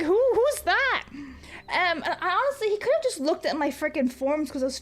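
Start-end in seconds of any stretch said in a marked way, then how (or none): 0.0-1.0 slow, higher baffled question; mock baffled who's that; confused. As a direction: drag out the confusion. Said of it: "And I'm just like".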